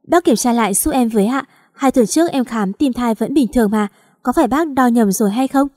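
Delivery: pleading to the doctor in panic; anxious, rushed begging; panicked plea. Acted. Young wife begging the doctor to recheck, panicked. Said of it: "Tôi hoảng hốt".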